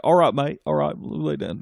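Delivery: hammed-up British bloke giving orders; British accent. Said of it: "I can't do accents".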